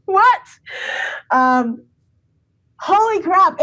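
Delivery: high, amazed disbelief; stunned disbelief. Real, not acted. Remembering the coach's kind words, stunned and high. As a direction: gasp it out in wonder.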